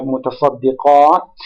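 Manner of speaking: "mutasaddiqat" stressed on a long final QAT; final-syllable stress. Shown as a demonstration. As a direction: lean on the last syllable of "mutasaddiqat". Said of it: "stressed on the last syllable".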